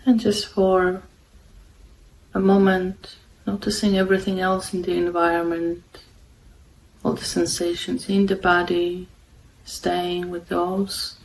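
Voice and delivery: calm, unhurried meditation guidance with long pauses; guided meditation. Real, not acted. Meditation host guiding listeners to follow the breath, calm and unhurried. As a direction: guide them gently, leaving long silences between phrases.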